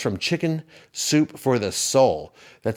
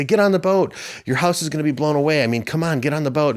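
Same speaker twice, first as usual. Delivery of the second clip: urgent rescuers; 5 semitones higher than usual. Retold or imitated. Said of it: "and they say".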